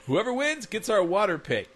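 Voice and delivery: high, laughing call; hammed-up announcement; mock yelling. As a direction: call it out as a goofy dad. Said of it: "yelling from the kitchen".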